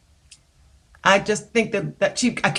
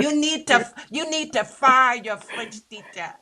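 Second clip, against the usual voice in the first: repeating the tease; 5 semitones higher than usual. Retold or imitated. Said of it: "one of the sound men said".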